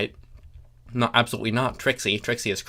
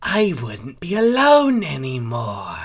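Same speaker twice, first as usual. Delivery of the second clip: Chrysalis voice; 3 semitones higher, 4 dB louder than usual. Acted.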